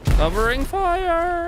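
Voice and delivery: high, slow battle call; shouting orders over battle. Pretend. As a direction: call it out like a soldier. Calling out in game.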